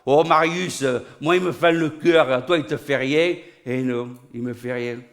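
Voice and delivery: mildly hammed-up Pagnol drama; lightly mocked southern melodrama; Pagnol parody. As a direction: play a corny old Marseille film scene. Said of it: "Des pagnolades".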